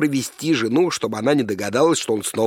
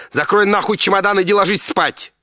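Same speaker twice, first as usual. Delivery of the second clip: higher, loud mock yell; wife yelling; 8 semitones higher, 5 dB louder than usual. Wife yelling at her drunk husband, mock shout. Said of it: "закричала жена".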